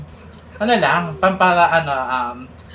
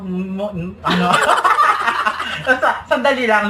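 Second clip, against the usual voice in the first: talking through a mouthful; chewing while talking. Real, not acted. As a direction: mouth full of food. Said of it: "lulukin ko muna".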